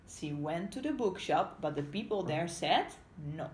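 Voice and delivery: picture-book narration; storybook reading. Acted. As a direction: clear read-aloud voice for young learners. Reads story to children.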